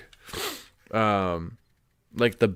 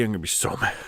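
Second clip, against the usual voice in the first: laughing; 2 semitones lower, much faster than usual. Real, not acted. Fears breaking new hidden blade.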